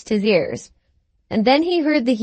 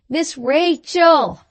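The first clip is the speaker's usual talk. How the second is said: much slower and higher, drawn-out call; roared name; 6 semitones higher, much slower than usual. A narrator's reading. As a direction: bellow the name slowly into her ear. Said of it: "roared the fat boy".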